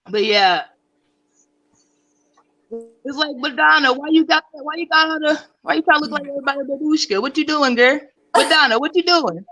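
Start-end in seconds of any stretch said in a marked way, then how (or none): 3.4-9.4 sassy scolding. Retold or imitated.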